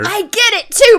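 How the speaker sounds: loud laughing agreement. Real, not acted.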